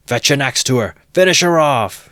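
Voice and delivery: high, loud savage yell; bloodthirsty shout. A narrator's reading. Third onlooker egging Mikolka on, bloodthirsty shout. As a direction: scream for the kill. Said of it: "shouted a third".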